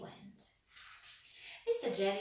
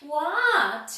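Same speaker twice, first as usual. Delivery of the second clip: sudden high startled shout; 7 semitones higher, 18 dB louder than usual. A narrator's reading. Mister Jelly startled by a noise, shouting high. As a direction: yell it out, high and alarmed. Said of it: "he shouted".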